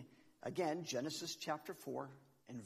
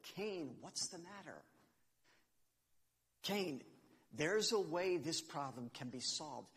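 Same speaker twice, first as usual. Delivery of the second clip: gentle fatherly God. Acted. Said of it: "Let me paraphrase this just a little bit".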